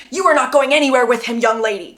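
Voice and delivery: fast, firmer scolding take; stern fatherly scold. Shown as a demonstration. Acting out Charlie scolding his daughter sternly. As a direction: point the finger and scold her. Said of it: "essentially that line would have been".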